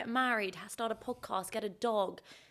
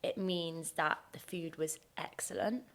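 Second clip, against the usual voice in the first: slow soft whisper; 3 semitones lower, 6 dB quieter, slower than usual. Real, not acted. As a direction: breathe the secret slowly. Whispered tip.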